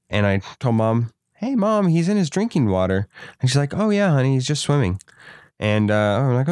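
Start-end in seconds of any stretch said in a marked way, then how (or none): 1.4-3.1 high-pitched imitation of a kid calling mom. Boy tells mom about his pet frog, high-pitched calling. 3.8-5.0 high lilt easing down, mock motherly reassurance; imitated reassuring mom. Mom reassures her child about the frog, lilting reassurance. Mom's breezy reassurance, retold.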